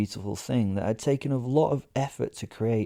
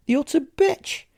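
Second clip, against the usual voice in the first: high, loud indignant cry; loud scandalised outburst; outraged exclamation; 5 dB louder than usual. A narrator's reading. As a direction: spit out the insult in outrage.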